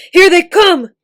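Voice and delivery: very loud, high warning shout. A narrator's reading. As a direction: yell the alarm to everyone. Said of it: "he shouted".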